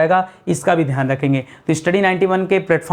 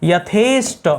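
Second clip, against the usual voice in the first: यथेष्ट said very slowly, syllable by syllable; slow spelling out; much slower than usual. Shown as a demonstration. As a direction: draw यथेष्ट out slowly for the class. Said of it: "ट लगता है यहाँ पर". (यथेष्ट धीरे धीरे बोलकर समझाना)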